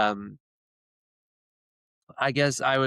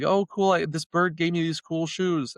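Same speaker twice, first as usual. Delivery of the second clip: thrilled sister; 7 semitones higher than usual. Retold or imitated. Sister gets shoes from the bird, high thrilled squeal. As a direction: squeal over the gift. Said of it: "she's like".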